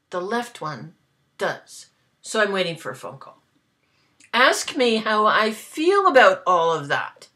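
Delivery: talking while chewing gum. Real, not acted. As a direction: say it around a wad of gum. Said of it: "I'm sorry I'm chewing gum".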